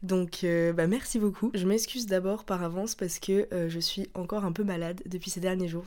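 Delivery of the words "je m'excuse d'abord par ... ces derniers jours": stuffy blocked nose from a cold; nasal voice. Real, not acted. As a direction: speak through a congested nose. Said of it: "je parle du nez".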